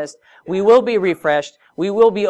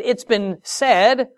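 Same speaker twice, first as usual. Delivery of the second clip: slow, higher, deliberate quoting; Jesus quoting; 6 semitones higher, much slower than usual. Retold or imitated. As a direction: set up the old law slowly. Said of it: "He said".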